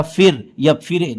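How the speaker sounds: slow फिर, फिरे, read letter by letter with "ee"; mispronounced fire. Shown as a demonstration. Teacher showing what not to say, slow "ee" in फिर, फिरे. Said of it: "या फिर ई की तरह".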